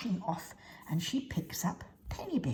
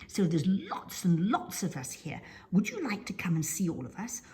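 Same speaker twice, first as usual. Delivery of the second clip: duck voice. Acted. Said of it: "this lovely little duck says".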